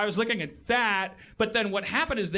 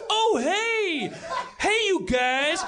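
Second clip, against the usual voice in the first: high, hammy greeting; bad improv killer; 8 semitones higher, 3 dB louder, much slower than usual. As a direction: play a cheesy masked killer. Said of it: "bad fucking improv performance".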